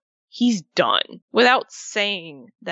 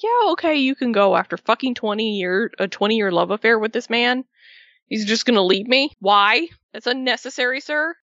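mock indignant scolding; 2 semitones higher than usual. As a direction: scold him like a betrayed fan, half joking. Fan scolds Taker for leaving.

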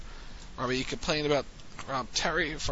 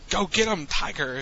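mildly excited send-off, louder and higher at the start; excited cheering-on; 4 semitones higher, 5 dB louder than usual. Retold or imitated. Retelling her send-off as he walks away, mildly excited. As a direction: imitate an excited send-off, punching the first words. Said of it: "she was excited and".

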